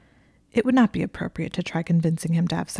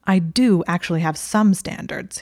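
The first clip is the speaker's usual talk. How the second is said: irritated sarcasm; 3 dB louder than usual. Acted. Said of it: "looking at her with irritation".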